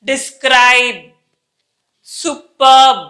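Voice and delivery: careful separate models, lips sealed at the end; tight final B. Shown as a demonstration. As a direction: DESCRIBE and SUPERB clamped shut on B. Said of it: "lips చాలా టైట్గా బిగిచ్చేస్తున్నాం".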